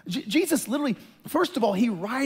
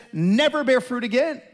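mildly raised, irritated retold command; mad, irritated; 3 semitones higher, 4 dB louder than usual. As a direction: retell it as a peeved curse. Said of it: "So he's mad, he's irritated".

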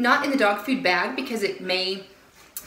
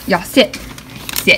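loud firm dog command; 6 dB louder than usual. Real, not acted. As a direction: order the dogs to sit. Commanding dogs.

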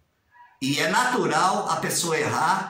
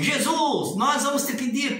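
higher, plainer prayer voice; outsider's prayer; 6 semitones higher than usual. Retold or imitated. Critic imitating an outsider's prayer opening, lightly raised. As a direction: mimic a prayer from another church. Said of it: "uma oração assim".

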